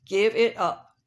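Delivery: lightly voiced rooster, strutting brag; boastful rooster. Handsome rooster with ten hens bragging at rhino, cocky. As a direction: show off like a vain rooster.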